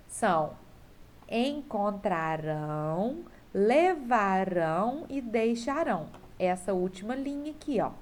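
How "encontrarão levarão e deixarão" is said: "encontrarão, levarão e deixarão" slowly drawn out, each stressed on final "rão"; last-syllable stress. Shown as a demonstration. Teacher reads out the future verbs, "encontrarão, levarão e deixarão" stressed on final "rão". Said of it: "depois circular a sílaba tônica".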